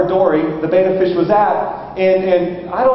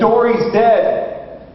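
mock alarm, higher and drawn out; terrified wife; 5 semitones higher, much slower than usual. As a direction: imitate a wife breaking dire news. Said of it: "look of terror on her face".

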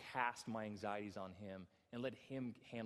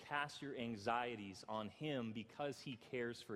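scripture reading; 2 semitones lower, slower than usual. Shown as a demonstration. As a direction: read the verse slowly and gently. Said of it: "It says".

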